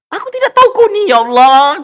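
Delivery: high-pitched, exclaiming disbelief; exasperated outcry. Real, not acted. Vlogger reacting to Atan's money quarrel, exasperated outcry. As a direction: cry out in exasperation, starting high.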